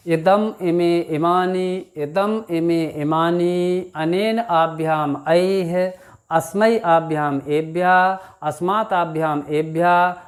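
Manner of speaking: slow, measured chanting of Sanskrit forms; slow recitation. Shown as a demonstration. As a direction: drill the declension aloud, steady and unhurried. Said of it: "एक बार उच्चारित करके देख लेते हैं". (धीमा, लयबद्ध पाठ)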